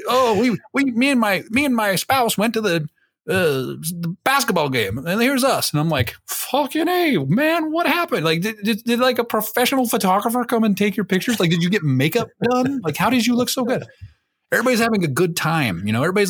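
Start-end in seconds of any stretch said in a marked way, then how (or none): 0.1-5.7 higher, chirpy imitation of a proud friend; mock smug bragging. Mimicking friends bragging about photos. 6.3-13.8 much higher, exaggerated disbelief; mock amazement. Retelling his amazed reply to friends.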